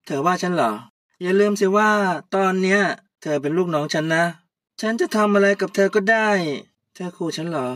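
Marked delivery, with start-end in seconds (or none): 0.1-6.3 louder, menacing boss threat; threatening boss. Acted. Puy threatening her subordinate Kaew, louder. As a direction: lean on her like a bullying boss.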